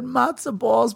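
New York accent imitation. Cohost retelling how his partner said matzo balls, lightly mocking. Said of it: "all the New York accent came out".

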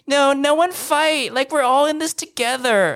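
lightly voiced do-gooder pleading for calm; mock peacemaker. Peacemaker in group chat.

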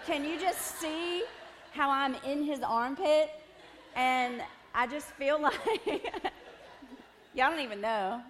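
high, loud and laughing through it; high, loud laughing squeal. Real, not acted. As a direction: gush and giggle at the photo. Laughing at the photo.

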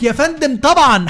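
high, eager waiter reply; mock waiter answer. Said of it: "يقول لك". (نادل متحمس بصوت عالي)

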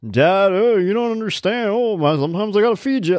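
mock sitcom daughter scolding her bumbling dad; bratty TV teen daughter. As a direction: lecture your dad like a smug TV sixteen-year-old. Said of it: "She, like, raises the dad".

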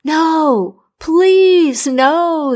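high, loud desperate plea; beg, voice jumping up high; crying out. Acted. Dying king begging the doctor to stay, high and desperate. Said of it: "the king cried".

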